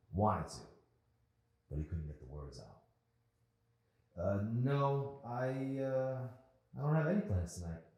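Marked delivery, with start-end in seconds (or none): 4.2-7.8 nervous stammer. Acted.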